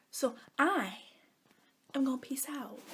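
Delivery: soft whispered goodbye; whispered sign-off. Real, not acted. Signs off to viewers, soft whispered goodbye. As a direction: whisper your exit. Signing off.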